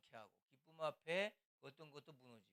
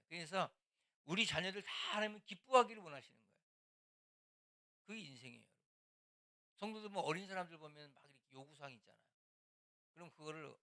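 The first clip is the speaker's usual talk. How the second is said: ordinary delivery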